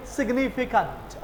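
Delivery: सिग्निफिकेंट with soft नट ending; British way. Shown as a demonstration. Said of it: "वो बोलेंगे". (अंग्रेज़ी ढंग से)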